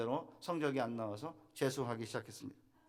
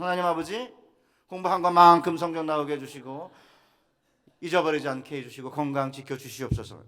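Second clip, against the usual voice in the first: retold family prayer; 10 dB louder than usual. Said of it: "똑같이 기도했어요".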